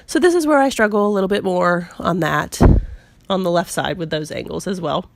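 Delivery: squeaky voice from a cold. Real, not acted. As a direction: talk through a cold, a bit squeaky. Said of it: "apologize for my little squeaky voice".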